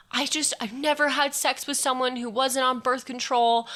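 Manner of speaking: high, whiny, teary mock voice of a panicking guy; imitating crying Tyler. Retelling how Tyler cried after the rape, in a high whiny mock-sob voice.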